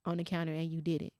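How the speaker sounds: soft, understated disappointment; retold disappointment. Mama quietly disappointed in her child over the meat, retold. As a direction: let the reproach come quietly, without yelling. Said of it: "Disappointment gonna take you way further than yelling".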